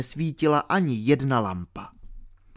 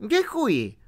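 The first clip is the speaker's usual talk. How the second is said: higher little squeak; squeaky thanks; 10 semitones higher than usual. A narrator's reading. R thanking Alenka, little squeak. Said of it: "zapištěl R".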